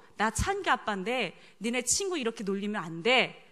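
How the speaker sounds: ordinary delivery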